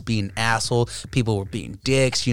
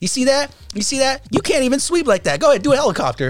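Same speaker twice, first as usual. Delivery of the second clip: mocking Abe bragging; 11 semitones higher than usual. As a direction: gloat for your friend. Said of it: "And Abe's like".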